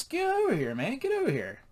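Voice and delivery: very high, squealed summons; hammed-up high-pitched holler; excited calling out. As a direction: call a pal over, voice leaping way up. God calling Jesus over.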